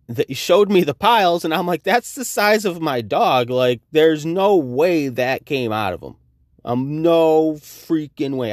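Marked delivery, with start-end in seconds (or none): 1.8-8.5 high, slow disbelief; incredulous. Retold or imitated. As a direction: drag it out in disbelief. Disbelief at the dog piles.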